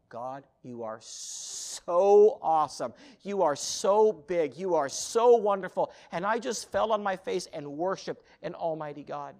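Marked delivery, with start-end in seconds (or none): 0.1-5.9 slow, fervent prayer of awe; worshipful prayer. Retold or imitated. Missionary recalling his prayer to an almighty God, slow and fervent. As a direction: praise God slowly, each line leaning on so.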